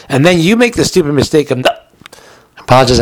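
hiccuping mid-sentence; talking through the hiccups. Real, not acted. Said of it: "I got the hiccups".

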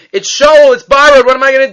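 high, loud panicked cry; panicked screaming. Retold or imitated. Student losing borrowed axe, panicked high scream. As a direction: wail over the lost axe. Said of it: "he starts screaming".

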